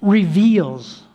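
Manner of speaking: "reveals" set apart by pauses; emphasize "reveals" as the key word; stress on reveals. Shown as a demonstration. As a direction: land firmly on "reveals", on its own. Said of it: "I want to emphasize the word reveals".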